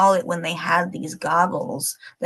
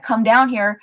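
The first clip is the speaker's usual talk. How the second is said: higher, louder call upward to an unseen intruder; retold yell up stairs; 4 semitones higher, 6 dB louder than usual. Man in TikTok dares the ghost upstairs, loud call. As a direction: challenge whoever is up there.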